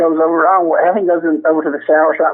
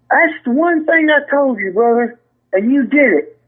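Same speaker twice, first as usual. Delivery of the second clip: higher, mock outraged scolding; imitating Blackie; 5 semitones higher than usual. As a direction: pile the blame on the rookie. Retold fake outraged accusation.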